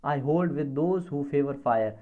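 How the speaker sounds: reading a verse line very slowly; slow recitation of a poem line. Shown as a demonstration. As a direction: read the line out word by word for the class. Teacher reads poem line aloud.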